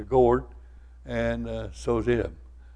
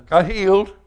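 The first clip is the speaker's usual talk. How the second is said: higher and louder, bragging; proud old man; 8 semitones higher, 7 dB louder than usual. Retold or imitated. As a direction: crow about the cure like a proud old man. Old man claims healing.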